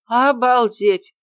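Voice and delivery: loud, high, drawn-out amazement; rapturous. A narrator's reading. Orderly comments on the handsome visitor, rapturously. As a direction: marvel slowly, bowled over. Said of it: "восторженно прокомментировала она".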